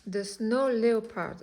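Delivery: sounding it out slowly in a French speaker's English accent; attempted English accent. Shown as a demonstration. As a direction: try the name with a clumsy English accent. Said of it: "désolée pour l'accent pourri".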